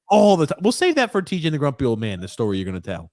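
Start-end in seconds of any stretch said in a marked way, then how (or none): 0.1-0.6 high, loud whiny tag; Grump impression. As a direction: whine it out at the end. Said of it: "I'm trying to do my Grump impression".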